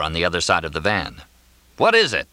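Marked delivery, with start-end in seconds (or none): 1.8-2.3 high, impatient demand. A narrator's reading. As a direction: snap the question out, fed up. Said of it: "Mortimer asked impatiently".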